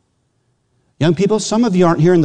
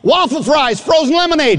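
yelling from far off; 11 semitones higher than usual. Retold or imitated. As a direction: stretch the words to carry across campus. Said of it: "I'm yelling at you".

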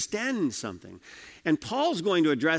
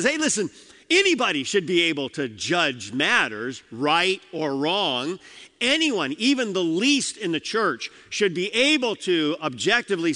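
much higher and louder, urgent; fervent preaching; 3 semitones higher, 3 dB louder than usual. Acted. Preacher paraphrasing Paul to the congregation, raised and urgent. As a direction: call it out to the whole room with fire. Preacher voicing Paul's plain point.

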